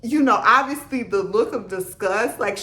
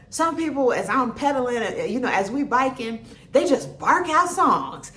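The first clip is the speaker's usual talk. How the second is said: imitating instructor. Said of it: "he goes".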